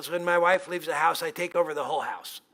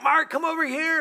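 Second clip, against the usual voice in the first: higher, urgent call across the yard; 10 semitones higher, 3 dB louder than usual. Retold or imitated. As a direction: shout for the neighbor to come. Wife calls neighbor after fall.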